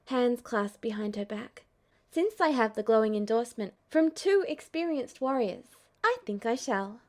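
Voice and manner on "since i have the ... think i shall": bright Aerith. Acted. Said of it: "she said brightly".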